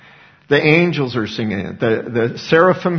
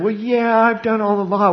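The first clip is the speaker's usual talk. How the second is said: high, self-satisfied mock boast; mock the self-righteous person claiming to keep the law; smug claim; 6 semitones higher than usual. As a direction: brush it off as if you're perfect.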